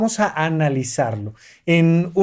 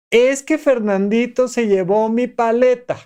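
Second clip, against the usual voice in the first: put-on child complaint; 6 semitones higher than usual. Girl tells her complaint.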